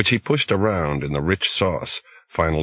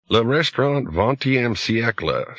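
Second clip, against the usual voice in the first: put-on higher announcer voice, Sprawl accent; a disembodied host in a thick Sprawl accent; 4 semitones higher than usual. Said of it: "a disembodied voice with a pronounced Sprawl accent".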